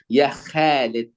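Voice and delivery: slow, light Ya Khalid; calling Khalid. Retold or imitated. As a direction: call Khalid thin like an Arab. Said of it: "mesti manggilnya Khalid".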